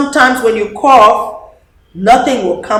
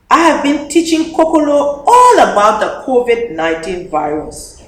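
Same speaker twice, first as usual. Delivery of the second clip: a lightly voiced proud little girl, higher; proud child; 4 semitones higher, 3 dB louder than usual. Dede telling Papa proudly, lightly child-voiced. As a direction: show off what she taught. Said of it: "Dede says".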